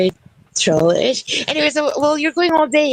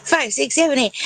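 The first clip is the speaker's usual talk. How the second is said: put-on old speech synthesizer; 4 semitones higher than usual. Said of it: "I've prepared a number for you".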